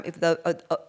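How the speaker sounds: out of breath from running; breathless after running back. Real, not acted. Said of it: "I'm just out of breath".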